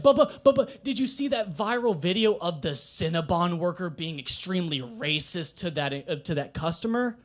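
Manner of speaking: lightly voiced friend bursting with news; excited friend. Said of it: "My friend was like".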